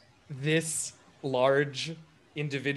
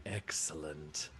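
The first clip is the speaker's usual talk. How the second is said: low, slow, hushed giant; satisfied elephant person; 9 semitones lower, 12 dB quieter, slower than usual. Acted. Elephant alien hears who has arrived, quietly satisfied. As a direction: savour the word softly, deep and drawn out. Elephant character answers the player.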